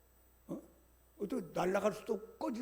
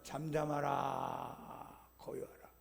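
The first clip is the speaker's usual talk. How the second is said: hushing command; 5 semitones lower, 9 dB quieter, much slower than usual. Acted. Jesus calms the storm.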